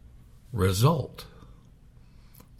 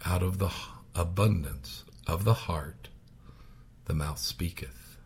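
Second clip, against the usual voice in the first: whisper; 2 semitones lower, 7 dB quieter than usual. Real, not acted. Preacher quoting scripture for weight.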